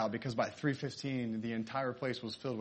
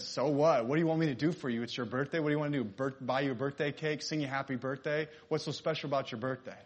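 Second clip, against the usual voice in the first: mean friend; 3 semitones higher, 5 dB louder than usual. Retold or imitated. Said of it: "why do you have to be so mean".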